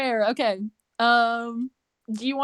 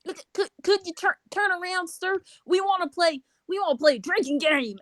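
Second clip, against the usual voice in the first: higher-pitched, halting request; timid customer; 6 semitones higher than usual. Acted. Chippendale asks the bartender to turn around, hesitant and high. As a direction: stammer out a tentative plea for service.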